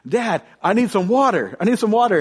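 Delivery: retold yelling. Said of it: "I start yelling at my dad".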